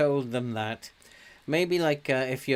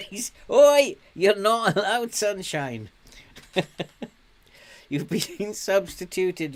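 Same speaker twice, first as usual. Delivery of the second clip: loud, much higher "oi" at the screen; half-laughing shout at the player; mock outraged yell; 8 semitones higher, 6 dB louder than usual. Real, not acted. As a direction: bellow at the cheeky player. Yelling at player back on pitch.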